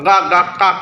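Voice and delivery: quick crow caws; crow caw imitation. Shown as a demonstration. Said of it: "কাক মানে কাকের আওয়াজ". (কাকের ডাকের নকল)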